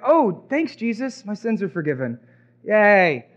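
mock gratitude, dry and let down; sarcastic thanks. Paralyzed man thanking Jesus, dry sarcasm. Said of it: "I would be upset".

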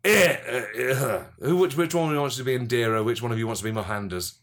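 lightly voiced tipsy character; drunk Gandhi. Gandhi handing out parts to podcast partners, lightly drunk. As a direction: ask it as a mildly drunk old leader. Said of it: "Drunk Gandhi".

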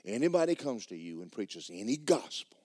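whisper. Real, not acted. Whispered quote of Paul.

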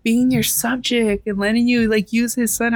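high, prying mock question; nosy questioner. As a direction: imitate people poking at her work. People questioning her art.

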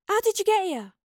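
high, loud astonishment; amazed question. Acted. Astrid asking Yarrow how she arrived, astonished. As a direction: blurt it out in surprise.

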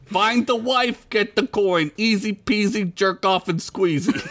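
lightly hammed Italian boss; Italian accent. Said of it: "I gotta do an Italian accent now".

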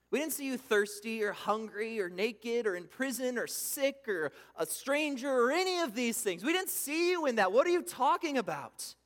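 mock-exasperated crowd voice; incredulous protest. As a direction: push back in amazement. The righteous protesting to Jesus.

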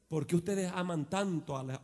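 ordinary talk, nothing marked

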